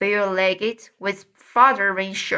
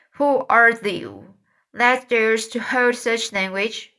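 stagey fake archaic declaiming; 2 semitones higher than usual. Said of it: "prompting for a late thought by the book".

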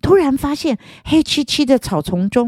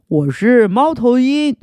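hoarse voice; 4 semitones higher, 3 dB louder than usual. Acted. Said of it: "沙哑的声音".

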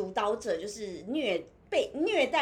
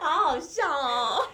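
slow, higher words through laughter; laughing; 4 semitones higher, 4 dB louder, slower than usual. Real, not acted. Host and guest cracking up over the chat. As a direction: say it while cracking up.

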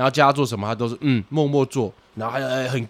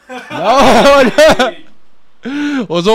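bursts out laughing, high and loud; laughing in disbelief; 11 semitones higher, 10 dB louder than usual. Real, not acted. Telling friends about a student who expected kicks, laughing. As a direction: crack up mid-sentence. Reacts to kick question.

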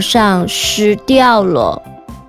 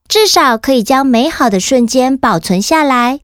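put-on kids show host. Host addresses children after story.

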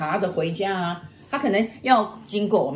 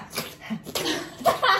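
high, voiceless licking noise; imitated licking; 13 semitones higher than usual. Wife showing what the ghost does, imitated licking. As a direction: mimic a ghost licking the window. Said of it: "他这样".

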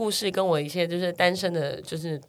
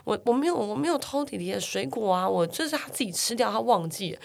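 denying it; 3 semitones higher, 6 dB quieter than usual. Retold or imitated. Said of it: "哥哥就开始死不认账".

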